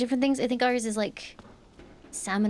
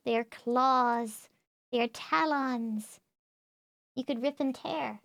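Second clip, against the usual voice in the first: mock dramatic; slower than usual. Dramatising ferret's claws.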